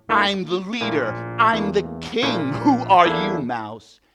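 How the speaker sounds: loud, high, booming boast; blustering angry lion. Acted. Lion king scorns the mouse's offer of help, bellowing. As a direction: bellow down at a tiny nobody.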